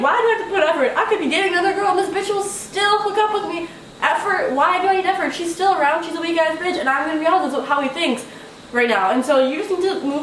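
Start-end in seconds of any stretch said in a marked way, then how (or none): 0.0-6.8 high, laughing mock voice of a cocky guy. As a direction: sneer his lazy thoughts, high and amused. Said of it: "In his head, he's like".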